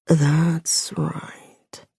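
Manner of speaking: whispered, drawn-out approval; slow. Acted. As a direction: stretch it slowly in a hushed man's voice. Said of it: "he says slowly".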